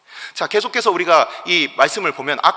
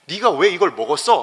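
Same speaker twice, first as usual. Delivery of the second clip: rebuke; 5 dB louder than usual. Retold or imitated. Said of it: "그렇게 책망하시자".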